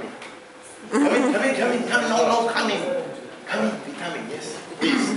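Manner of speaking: friendly high call "come in, come in". Real, not acted. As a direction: wave someone in from across the room. Calling a latecomer in.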